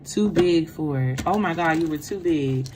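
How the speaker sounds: usual speaking voice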